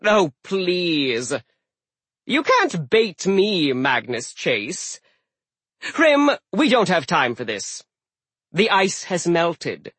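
slow annoyed snarl. Acted. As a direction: snarl impatiently at the giant. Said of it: "Loki snarled".

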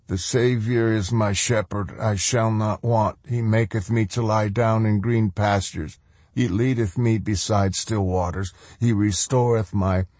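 steady, devout recital under his breath; prayerful recitation. Acted. Prisoner recites psalm with eyes closed.

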